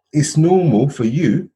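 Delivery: put-on slow French-accented line. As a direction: drawl it like the French manager. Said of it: "In the French accent".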